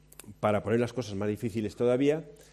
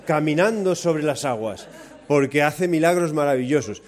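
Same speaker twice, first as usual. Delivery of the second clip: mock calm disciple, laughing; 4 dB louder than usual. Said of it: "Lo anormal sería que ... dijese".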